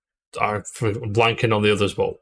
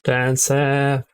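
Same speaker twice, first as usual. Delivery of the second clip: put-on echoing it back in Cockney accent; copying a Cockney accent playfully; 3 semitones higher than usual. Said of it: "Cockney accent".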